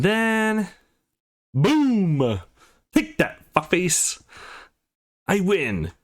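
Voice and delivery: cheering a knockout; triumphant yell. Acted. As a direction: crow over the win. Winning the round at Mortal Fighter.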